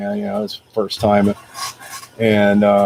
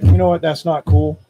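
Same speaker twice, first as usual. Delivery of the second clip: firm confrontation; 4 semitones higher, 4 dB louder than usual. Retold or imitated. Confronting the man at car.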